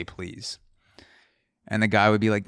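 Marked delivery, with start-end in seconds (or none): 0.0-0.6 a much softer, almost breathed please. Pretend. Softer please to the Five Guys cashier. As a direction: drop the volume right down on please.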